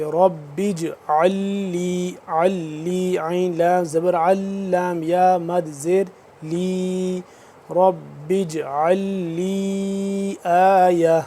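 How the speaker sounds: اجعل with a bouncing ج, a small echo on the stop; qalqala on jeem. Shown as a demonstration. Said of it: "قلقلہ بھی کریں گے".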